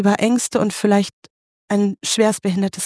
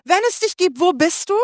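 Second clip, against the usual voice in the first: mock cry to God; 8 semitones higher than usual. Preacher voicing a cry to God, much higher. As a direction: cry out in need, half-performed. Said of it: "schreist du zu Gott".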